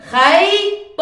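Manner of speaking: خيط loud and drawn out, with the final ط stressed; model word spoken clearly. Shown as a demonstration. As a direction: pronounce خيط crisply and loudly for the class. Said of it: "خلينا نشوف كلمة خيط".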